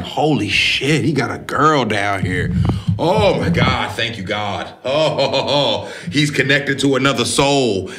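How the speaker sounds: acted-out thank-God relief, pitch lifted; overjoyed relief. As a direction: gush with mock relief and gratitude. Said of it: "their face of relief".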